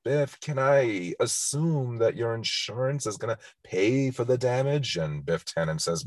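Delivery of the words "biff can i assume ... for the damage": mildly voiced meek plea; feeble George. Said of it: "tries very feebly to say to him".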